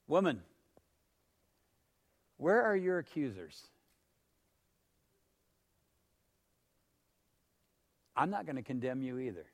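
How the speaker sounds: soft, unhurried acted reassurance; gentle forgiveness. Jesus to the woman caught in adultery, gently and softly.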